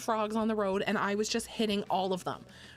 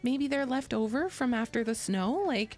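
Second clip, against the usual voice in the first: higher, confused musing; mock puzzled; 5 semitones higher than usual. Retelling her confused drive, high puzzled voice. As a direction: wonder aloud, pitched up. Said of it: "I was literally like".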